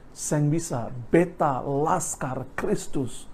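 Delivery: slow, steadfast retold answer; innocent refusal. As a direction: refuse simply, spacing out each word. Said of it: "dengan polos berkata gini".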